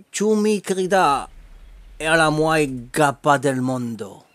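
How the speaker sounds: slow, drawn-out Spanish love line; charming Spanish accent. Acted. Wooing Patricia with a compliment, charming Spanish accent. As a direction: lay on a suave Spanish accent, slowly. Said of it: "avec un bel accent".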